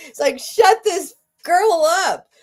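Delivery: high, loud, tearful self-mockery; laughing through tears. Real, not acted. Teasing herself to viewers, crying. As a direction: laugh at yourself while crying. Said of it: "I'm gonna cry right now".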